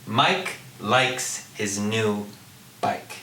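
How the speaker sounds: slow "Mike likes his new bike", word by word; crisp K in "Mike", "likes", "bike"; consonance demonstration. Shown as a demonstration. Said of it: "repetition of a consonant sound in a stressed syllable".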